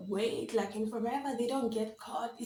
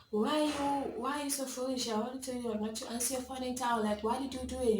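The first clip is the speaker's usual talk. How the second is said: mildly exasperated mock scolding, pitched up; scolding mother; 2 semitones higher than usual. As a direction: tell off a child as mom would. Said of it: "after a lot of scolding".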